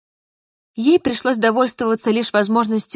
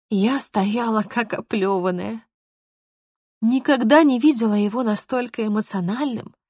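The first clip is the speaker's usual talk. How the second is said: usual speaking voice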